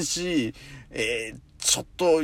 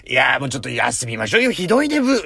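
complaining pig disciple; 2 semitones lower, faster than usual. Retold or imitated. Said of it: "豚か、俺".

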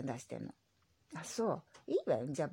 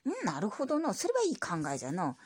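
lightly voiced old grandpa; grumbly old grandpa reply; old man voice. Grandpa character voice.

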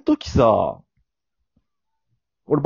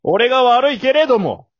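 a lightly put-on voice, higher and louder; impression of someone; 12 semitones higher, 5 dB louder than usual. Doing an impression of someone while half-apologizing, lightly put-on voice. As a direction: mimic a certain person, tongue in cheek. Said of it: "ある方のモノマネしても".

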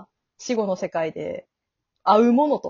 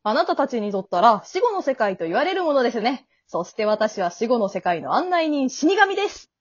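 lightly played afterlife guide's patter; polite host lifting high on the final title; breezy grim reaper guide; 4 semitones higher than usual. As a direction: introduce yourself like a tour guide. Death guide introduces himself.

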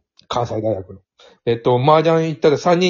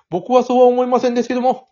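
「僕はそうは思いませんですけども」 held on one raised, level pitch; monotone Fukushima speech; 8 semitones higher than usual. Shown as a demonstration. Demonstrating Fukushima dialect to colleagues, 「僕はそうは思いませんですけども」 without intonation. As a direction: say 「僕はそうは思いませんですけども」 straight through with no rise or fall. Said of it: "抑揚なしに".

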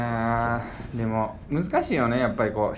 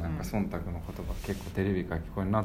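hushed, much softer, as if secret; small voice; 5 semitones lower, 8 dB quieter than usual. Real, not acted. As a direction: lower the voice to a near whisper. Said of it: "なんで今小声で言ってんの".

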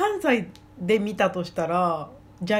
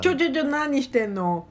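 alarmed; 5 semitones higher than usual. Pretend. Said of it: "あんたんちの犬を盗もうとしてたり".

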